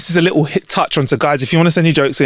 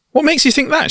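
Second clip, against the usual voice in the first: wife incredulous; 13 semitones higher than usual. Acted. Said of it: "she said".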